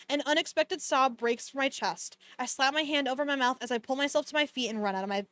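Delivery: even-paced audiobook-style reading; story narration. A narrator's reading. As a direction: read the novel aloud, understated and steady. Reads the novel aloud.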